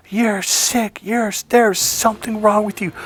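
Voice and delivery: high-pitched retold tirade; angry blow-up. Boyfriend throws out his smiling girlfriend, angry blow-up. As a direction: let loose a high, fed-up accusation. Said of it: "I blew up at her".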